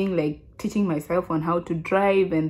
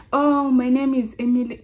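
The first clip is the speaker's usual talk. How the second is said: lightly put-on higher voice; a hint of a raised, careful newcomer voice; former way of speaking; 5 semitones higher than usual. Shown as a demonstration. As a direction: imitate your earlier self introducing yourself. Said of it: "This is how I used to speak".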